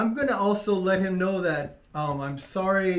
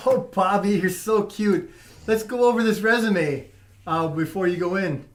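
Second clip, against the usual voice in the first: giggly little voice; 3 semitones higher, 6 dB louder than usual. Acted. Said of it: "in a giggly little voice".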